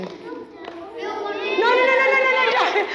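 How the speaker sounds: high laughing no, no, no; giggling plea to stop. Acted. Pleading puppet not to repeat.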